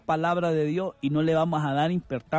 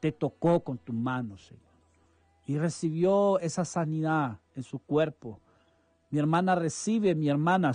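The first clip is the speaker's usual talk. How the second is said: fervent prayer. Acted. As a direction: pray it over her like a blessing. Radio pastor prays for a listener.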